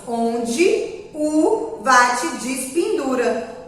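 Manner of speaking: "onde o vate despendura" with final e as i and o as u; slow demo of spoken vowels in "onde o vate despendura"; spoken pronunciation. Shown as a demonstration.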